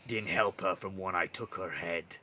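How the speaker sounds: lightly voiced monster, cold taunt; menacing minotaur. Minotaur needling the guard about his sister, understated menace. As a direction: let the minotaur's threat sink down.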